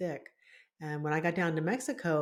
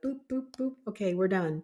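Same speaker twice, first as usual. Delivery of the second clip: quick mock beeps, then businesslike wrap-up; brisk all business; 3 semitones higher than usual. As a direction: rattle it off like a busy negotiator. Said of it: "he was also just all business".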